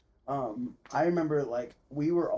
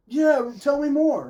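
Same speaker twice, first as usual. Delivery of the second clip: higher, louder, slow mock enthusiasm; mock eager; 13 semitones higher, 9 dB louder, slower than usual. James mocking his fake interest in stained glass, higher and drawn out. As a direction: ham up a fake fascinated yes. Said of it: "And James was like".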